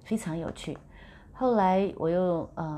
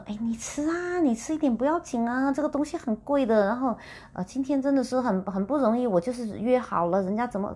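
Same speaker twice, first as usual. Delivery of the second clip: urging friend; 6 semitones higher than usual. Retold or imitated. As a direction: coax her to eat, won't take no. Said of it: "他说". (朋友一再劝吃大闸蟹，高声热情劝说)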